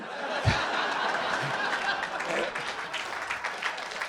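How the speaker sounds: breathy high giggle; a long unvoiced laugh; high airy laugh. Real, not acted. Laughing at own violence quip.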